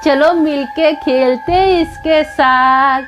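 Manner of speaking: drawn-out, sing-song spirit voices; slow creepy ghost chorus; slow eerie ghost welcome. Acted. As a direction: greet the victim like playful ghosts. Ghosts welcoming new friend.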